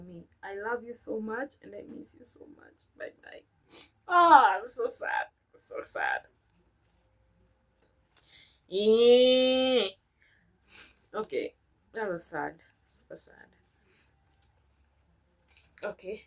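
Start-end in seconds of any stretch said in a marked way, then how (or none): 3.0-3.4 tearful goodbye. Real, not acted. Emotional end of letter. 4.7-13.5 choked up. Real, not acted. Overcome after reading letter.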